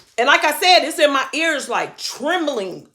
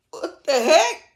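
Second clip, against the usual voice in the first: surprised; 6 semitones higher, slower than usual. Retold or imitated. Retold out-of-body panic.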